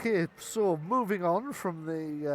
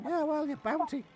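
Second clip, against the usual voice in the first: goblin voice; 12 semitones higher, 4 dB louder than usual. Acted. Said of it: "the little goblin goes".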